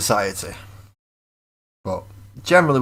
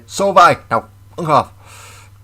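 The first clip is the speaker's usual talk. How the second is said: mock shout; 8 semitones higher, 12 dB louder, slower than usual. Retorting to people in anecdote.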